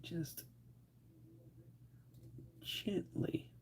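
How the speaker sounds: soft breathy whisper; whispering gently. Real, not acted. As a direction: whisper it as if not to disturb. Delicate gluing.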